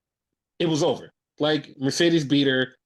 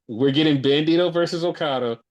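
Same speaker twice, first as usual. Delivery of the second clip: excited; 6 dB louder than usual. Real, not acted. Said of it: "I'm excited".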